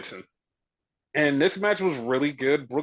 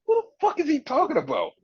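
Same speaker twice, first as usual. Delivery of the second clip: high-pitched mock bafflement; bewildered; 11 semitones higher than usual. Host recalling not knowing the girl, high and bewildered. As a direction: squeal the question in exaggerated confusion. Quoting own confusion at the scene.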